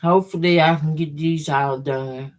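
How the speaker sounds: talking around a candy; words round a piece of candy; mouth full. Real, not acted. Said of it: "Excuse me talking with my mouth full".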